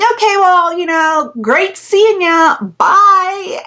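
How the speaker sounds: high, sing-song fake-polite goodbye; forced politeness. Leaving the creep at his car, high fake-polite goodbye. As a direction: sweetly get away from him.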